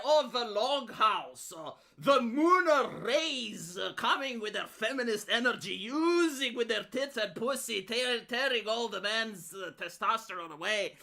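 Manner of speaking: slow, pompous mock-philosopher drawl; mock Carl Benjamin. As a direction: parody a self-serious pundit, stretched out slowly. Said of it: "Carl is like".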